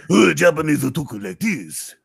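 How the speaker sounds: second take, kept near the normal register; caricature voice. Acted. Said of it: "your difference between the Japanese and Chinese impression".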